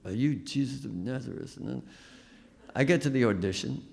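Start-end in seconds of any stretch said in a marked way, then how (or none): 0.1-1.6 King's English. Retold or imitated. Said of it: "he's teaching me King's English".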